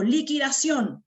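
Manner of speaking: slow hyped-up ad call; advertising shout. Shown as a demonstration. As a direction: call it out like a store sale. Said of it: "Cuando quiero publicitar".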